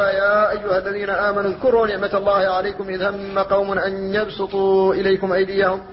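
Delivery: measured recitation with elongated vowels; Quran recitation. Acted. Teacher quoting a verse to students, measured recitation.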